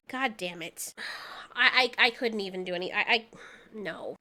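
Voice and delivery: real grief, barely able to finish a sentence; choked up. Real, not acted. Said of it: "This was so depressing".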